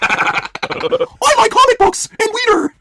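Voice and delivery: very high, very slow goofy nerd; dopey nerd voice. Pretend. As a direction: drag it out like a dorky kid. Mock young Punk voice.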